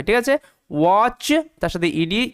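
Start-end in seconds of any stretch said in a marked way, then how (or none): 0.7-1.3 ওয়াচ said "wach", no separate T; silent T. Shown as a demonstration. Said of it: "ওই কারণে টি silent".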